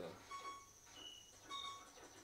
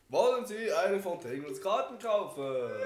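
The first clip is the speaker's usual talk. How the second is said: shopkeeper voice; 7 semitones higher, 7 dB louder than usual. Acted. Reads shop character line.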